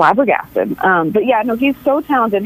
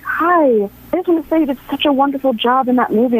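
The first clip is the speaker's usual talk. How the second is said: imitating a friendly star's higher-pitched greeting; higher, quicker voice for a quoted compliment; Rachel McAdams; 5 semitones higher, faster than usual. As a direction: lift the pitch and rush the compliment. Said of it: "she was like".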